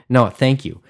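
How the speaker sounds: earnest, corrective thanks; mean the thanks plainly, dropping any sarcasm; sincere, not sarcastic. Real, not acted. Podcaster correcting his sarcastic-sounding thanks to Kickstarter creators, sincerely. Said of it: "And I'm not being sarca".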